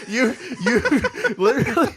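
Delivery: high laughing through words; laughing while talking. Real, not acted. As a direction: talk while cracking up.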